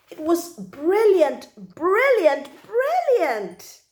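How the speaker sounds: put-on a child bursting with delight; gleeful. Child gushing over fishing.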